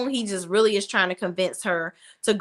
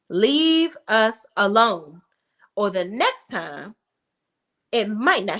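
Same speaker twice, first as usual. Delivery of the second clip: slow mock threat; slower than usual. Fatima threatens Hayden.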